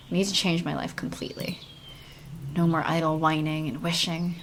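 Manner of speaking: earnest young heroine, lightly voiced. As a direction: read it as the game's heroine. Reads heroine's lines in game.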